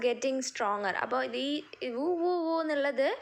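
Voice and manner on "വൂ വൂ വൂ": light, quoted "woo" of wind; imitated wind noise. Shown as a demonstration. Teacher explaining the wind's sound, light imitation. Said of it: "ഈ കാറ്റിൻ്റെ ശബ്ദമാണ്".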